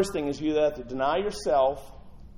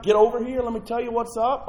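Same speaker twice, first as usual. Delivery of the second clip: a hint of a scolding friend, higher; bossy mock rebuke; 8 semitones higher, 5 dB louder than usual. Peter grabbing Jesus aside, bossy and scolding. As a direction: pull him aside and set him straight.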